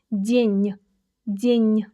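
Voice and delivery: день with a softened final n; день, tongue pressed up for the last n; soft n. Shown as a demonstration. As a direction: say день ending in a squeezed ny sound. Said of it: "squeeze it a little bit with your tongue".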